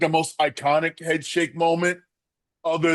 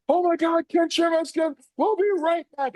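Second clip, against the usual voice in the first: much higher, excited announcer call; Jim Ross. Retold or imitated. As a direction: call it like a frantic commentator going to break. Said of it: "I can hear Jim Ross going".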